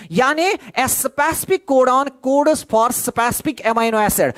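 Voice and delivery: slow, spelled-out dictation pace. Shown as a demonstration. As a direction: give the definition word by word for notes. Teacher dictates definition slowly.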